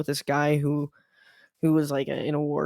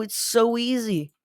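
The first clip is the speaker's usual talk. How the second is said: slow, high, gloating in a put-on voice; put-on voice drawing out the gloat; gleeful; 6 semitones higher, slower than usual. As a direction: savour how easy it is. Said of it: "I was like".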